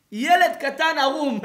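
slow, loud, high; emphatic proclaim. Real, not acted. Rabbi painting the image loudly for his class. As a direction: stress the picture slowly.

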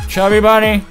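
talking through marshmallows; mouth full. Real, not acted. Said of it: "every time I die".

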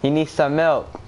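"He needs some milk" in separate, weighted words; demonstrated meme line. Shown as a demonstration. Showing a friend how to say it, "He needs some milk" as a meme. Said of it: "Say it like that".

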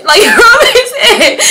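high, loud laughing repeat; words squeezed out through laughter. Real, not acted. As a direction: crack up while saying it. Cracks up repeating her own words.

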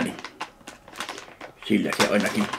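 ordinary talk, nothing marked

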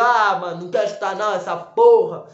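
angry. Retold or imitated. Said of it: "sai com raiva".

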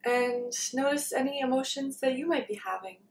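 calm meditation guidance with long pauses; unhurried, leaving long silences between phrases; guided meditation. Real, not acted. Leads a meditation.

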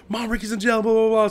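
high-pitched brother calling mom; retold alarm. Brother breaking bad news to mom.

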